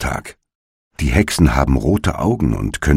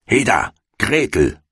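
calling out; 6 semitones higher than usual. A narrator's reading. Impatient witch to the girl, calling out. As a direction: call the girl over sharply. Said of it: "rief sie dem Mädchen zu".

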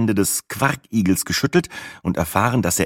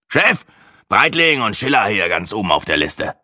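African tour guide; 3 semitones higher than usual. Acted. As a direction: call out the names like a tour guide. Tour guide reads the list.

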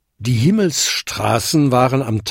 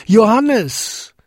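high, louder shout of the name; calling as loud as he can; 10 semitones higher, 4 dB louder than usual. A narrator's reading. Jakob shouts down for his son, loudest call. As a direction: call with all his strength. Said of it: "so laut er konnte".

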